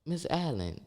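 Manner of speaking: high, soft pleading whine; pleading to teacher. Retold or imitated. Telling Miss Allen it hurts, high soft whine. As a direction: beg the teacher like a hurt kid. Quoting himself to Debbie Allen.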